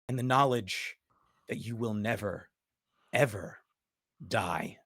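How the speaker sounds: measured, dramatic narration with long pauses; low, weighty phrase endings; game master's scene setting. Acted. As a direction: let each image hang before the next. Game master sets a vision scene.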